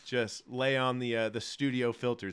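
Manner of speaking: hungover hoarse voice. Real, not acted. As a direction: talk with a rough, hoarse voice. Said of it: "We sound like we're underwater".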